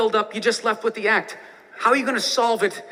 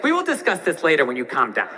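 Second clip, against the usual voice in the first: lower, prim, measured calm wife; 9 semitones lower than usual. Retold or imitated. Girlfriend to angry boyfriend, prim measured calm. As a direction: talk him down coolly, lightly voiced. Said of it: "She's like".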